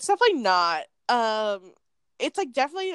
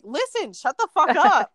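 louder, higher, drawn-out telling-off; mock angry order; 5 semitones higher, 5 dB louder, slower than usual. Retelling an off-camera guy confronting the customer, mock forceful. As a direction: imitate a fed-up bystander laying down the law.

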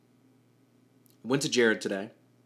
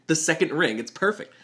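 giddy, higher and louder; excited; 7 semitones higher, 6 dB louder than usual. Real, not acted. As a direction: burst with delight. Thrilled about the ring.

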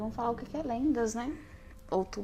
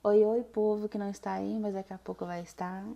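put-on demure voice. Guest greeting the absent audience, put-on demure voice. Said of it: "fala com a voz direita".

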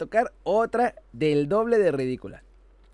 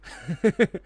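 quick airy chuckle; a short scoffing laugh; breathy laugh. Retold or imitated. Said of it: "el jeque se va a reír así". (risita burlona)

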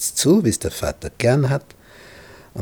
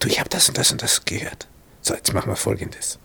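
conspiratorial whisper; 5 dB quieter, faster than usual. Retold or imitated. Rebekka plotting secretly with Jacob.

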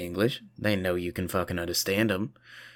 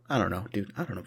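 whispered aside; 6 dB quieter, faster than usual. Real, not acted. Muttered aside.

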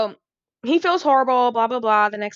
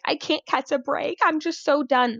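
whiny victim; 5 semitones higher than usual. Retold or imitated. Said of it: "plays this weird victim role".

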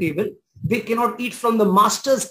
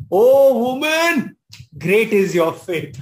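solemn Jesus; 3 dB louder, slower than usual. Retold or imitated. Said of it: "Jesus answered her".

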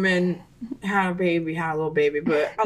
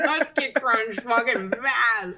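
laughing; 3 semitones higher, slower than usual. Real, not acted. Laughing, slow.

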